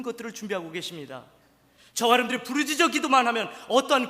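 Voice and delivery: fervent revival preacher; full-force preaching. Acted. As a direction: preach it out to the congregation.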